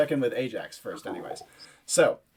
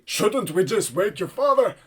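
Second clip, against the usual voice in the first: high, raised-voice anxious question; yelling militiaman; 7 semitones higher, 4 dB louder than usual. Acted. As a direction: call it out in alarm. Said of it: "you hear them yelling to Elkie".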